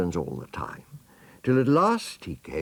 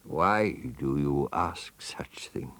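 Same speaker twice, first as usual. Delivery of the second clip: sly crocodile; 2 semitones lower, slower than usual. Acted. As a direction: murmur it slyly like a lurking crocodile. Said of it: "said the crocodile".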